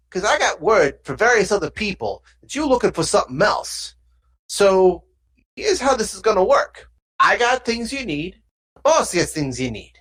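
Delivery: thug laying down terms, pitch swinging up; lightly voiced gangster, businesslike and pushy; thug deal-maker. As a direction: lay out terms like a street fixer.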